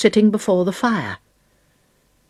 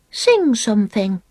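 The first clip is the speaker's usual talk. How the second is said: demanding; 4 semitones higher than usual. Acted. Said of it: "she demanded".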